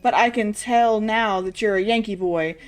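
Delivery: lightly voiced army officer, charging in then apologising; hint of a wartime British brigadier; old British brigadier, blustering. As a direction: play a touch of the old-chap British military man.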